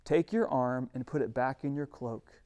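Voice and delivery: steady, unhurried command; calm God. Acted. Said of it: "And God says".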